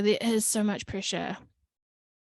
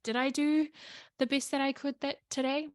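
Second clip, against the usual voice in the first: gentle self-question; 6 semitones higher than usual. Retold or imitated. Asking herself gently.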